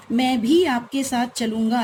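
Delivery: भी pushed with extra force; भी stressed firmly. Shown as a demonstration. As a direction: lean on भी. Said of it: "भी शब्द पर अतिरिक्त बल दिया है".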